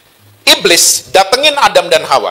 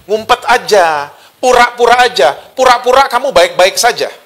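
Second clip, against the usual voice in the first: lightly voiced, higher coaxing; devil's incitement; 4 semitones higher than usual. Devil inciting people to hide and pretend, lightly voiced coaxing. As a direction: coax lightly in a raised pitch. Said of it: "hasutannya iblis".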